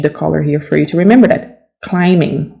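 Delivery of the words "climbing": Climbing said as climing, no B; Climbing with a silent B. Shown as a demonstration. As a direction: leave the B out of Climbing. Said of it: "The B is silent".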